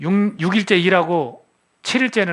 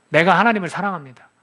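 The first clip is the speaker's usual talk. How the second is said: louder, with weight on 하나님을; firm declaration; 3 dB louder than usual. Shown as a demonstration. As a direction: declare it boldly to the room. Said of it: "하나님, 나 사랑합니다".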